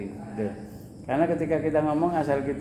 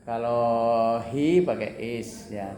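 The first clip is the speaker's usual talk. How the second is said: slow and deliberate; slow explaining; 3 semitones lower, much slower than usual. Shown as a demonstration. Teacher explains a grammar rule slowly. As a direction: lay out the rule word by word. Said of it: "Kalau you itu pakai are".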